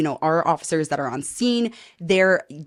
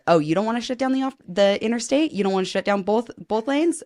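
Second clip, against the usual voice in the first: raised-pitch mock challenge, quick at first; cocky challenge; 3 semitones higher than usual. Retold challenge to police officers.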